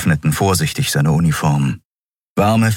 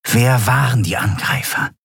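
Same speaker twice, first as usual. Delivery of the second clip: urgent question; 5 semitones higher than usual. Acted. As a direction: demand an answer fast. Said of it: "fragte Shiar".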